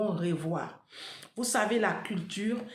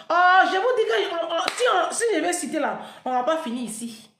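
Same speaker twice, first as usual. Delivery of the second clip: excited outburst; 7 semitones higher, 6 dB louder than usual. Real, not acted. Vlogger exclaiming to her followers about endless tragedies, loud and high. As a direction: exclaim it, sweeping the audience along.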